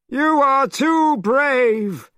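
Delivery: very high, loud, slow demon voice; monster king. A narrator's reading. Great king demanding the boy's family, high and loud. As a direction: boom out the question like a monster.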